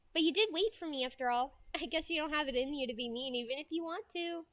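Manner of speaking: lightly voiced schoolgirl; anime girl. Friend teases about waiting for her, light anime girl voice. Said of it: "a regular anime girl voice".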